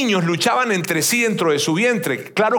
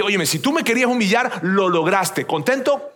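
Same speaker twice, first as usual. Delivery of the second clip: angry reproach; 3 semitones higher than usual. Retold or imitated. Preacher retelling how he told God off, angrily reproachful. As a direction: re-enact a grievance, ending on a pointed question. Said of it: "me enojé y le dije".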